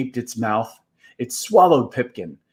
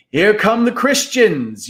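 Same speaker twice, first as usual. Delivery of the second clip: higher, raised alarm call; crowd yell; 8 semitones higher, 3 dB louder than usual. Acted. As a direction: warn everyone the enemy is coming. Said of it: "yelled voices below".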